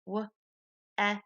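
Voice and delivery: "W-E-S-T" sound by sound, soft and separated; tapping out sounds. Shown as a demonstration. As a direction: tap out "W-E-S-T" one sound per tap, quietly. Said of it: "put your elbow up for the tap out".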